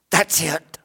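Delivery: whispered repeat of That's it, unvoiced. Shown as a demonstration. Preacher hushing the congregation, whispered. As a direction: drop to a breathy whisper on That's it.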